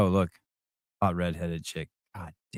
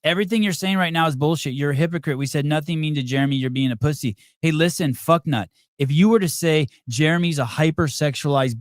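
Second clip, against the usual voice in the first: real irritation, pitched up, cutting in; raised-pitch, combative rebuke; heated interruption; 4 semitones higher than usual. Real, not acted. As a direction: cut in hotly and tell them off. Heated quarrel, cutting the caller off.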